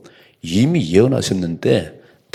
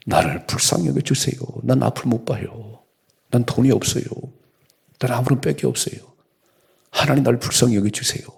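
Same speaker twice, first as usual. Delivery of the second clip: crying out; 3 semitones higher than usual. Retold or imitated. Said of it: "막 소리 질렀어요".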